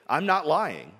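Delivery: a firm denial with "not" hit hard; stress on not. Acted. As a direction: lean on "not" in "I'm not lying".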